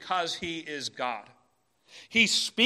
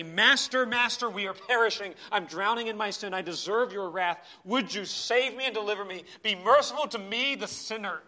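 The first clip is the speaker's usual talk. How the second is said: pleading for rescue, higher and louder; desperate cry; 3 semitones higher, 4 dB louder than usual. Acted. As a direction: cry out like a drowning sinner. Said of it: "A cry of desperation".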